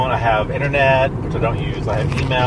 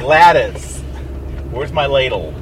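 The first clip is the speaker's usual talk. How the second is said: a hint of an old lady; barely voiced old lady asking about a ladle; 2 semitones lower than usual. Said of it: "'Cause I'm an old lady".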